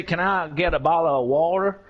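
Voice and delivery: casual British accent with dropped t's in "bottle of water"; relaxed British accent, t's swallowed. Shown as a demonstration. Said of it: "I'm going to put on my British accent".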